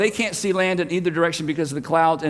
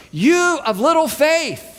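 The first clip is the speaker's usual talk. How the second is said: slow, high, loud call; loud rebuke; 8 semitones higher, slower than usual. Retold or imitated. Jesus yelling to panicked disciples over storm, loud rebuke. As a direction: shout the rebuke over the wind. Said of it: "And he says loudly".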